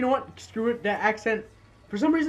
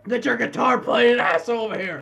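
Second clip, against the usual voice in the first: loud, drawn-out shout; playful yell; 5 semitones higher, 8 dB louder than usual. Pretend. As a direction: holler it across the game world. Yelling during game play.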